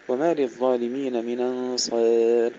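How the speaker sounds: "من أنصار" run together as minansar, alif tilted toward e; Warsh naql and taqlil. Shown as a demonstration. Teacher demonstrates Warsh's reading, naql with taqlil. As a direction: drop the hamza and tilt the alif in "أنصار". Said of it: "النقل لورش مع التقليل".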